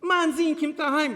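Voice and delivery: high, loud thick Hasidic Yiddish; the father's heavy Hasidic accent. Retold or imitated. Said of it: "with the thick Chassid".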